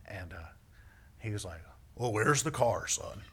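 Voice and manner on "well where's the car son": lightly voiced dad questioning his son; a hint of a puzzled father; father impression. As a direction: imitate your father's way of talking. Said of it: "he really does talk like that".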